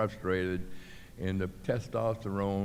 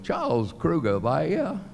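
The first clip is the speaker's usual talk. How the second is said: higher, louder, slow teasing call; teammates mocking; 9 semitones higher, 5 dB louder than usual. Teammates greeting late Charlie, slow mocking call. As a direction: drag it out to tease Charlie. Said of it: "all the guys are going".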